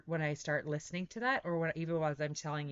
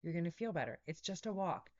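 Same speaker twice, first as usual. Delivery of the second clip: soft, coaxing inner voice; soft reassuring voice of the inner self; gentle inner voice; 7 dB quieter than usual. Retold or imitated. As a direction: talk yourself into it gently. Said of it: "this voice within me that always says".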